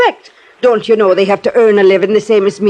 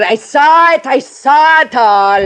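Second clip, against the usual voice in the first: put-on quoting a frightened boy; 5 semitones higher, slower than usual. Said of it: "kept saying it over and over".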